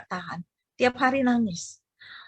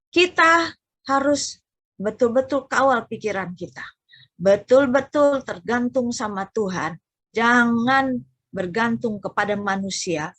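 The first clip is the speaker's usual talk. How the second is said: preaching exhortation; 3 dB louder than usual. Acted.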